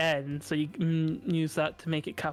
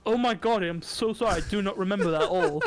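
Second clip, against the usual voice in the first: retold apology; 3 semitones higher than usual. Retelling his apology to his friend, mildly flustered. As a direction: replay the flustered "oh my god" sorry. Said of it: "I was like".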